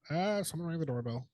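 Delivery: a hint of parrot voice; talking parrot. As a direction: report it as a parrot, slightly put on. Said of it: "Parrot says".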